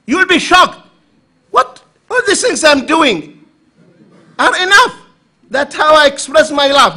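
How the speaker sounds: high, loud indignant husband; mock protesting husband. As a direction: play the baffled husband who thinks gifts are enough.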